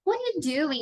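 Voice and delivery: "What are you doing?" run together as a natural question; linked-up "What are you doing?" with an expressive question tune; questioning intonation. Shown as a demonstration. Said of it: "usou uma entonação de pergunta mesmo".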